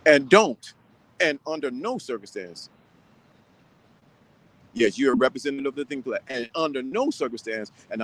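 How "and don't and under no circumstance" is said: ordinary delivery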